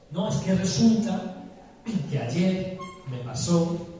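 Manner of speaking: amigo que se abre. Acted.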